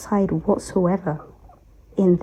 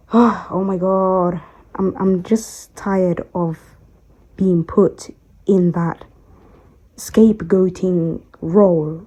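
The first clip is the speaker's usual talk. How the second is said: weary sigh; slower than usual. Real, not acted. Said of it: "trying not to get emotional".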